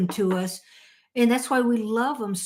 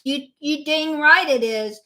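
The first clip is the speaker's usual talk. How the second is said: mock sassy stranger; 8 semitones higher, 5 dB louder than usual. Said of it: "And she goes".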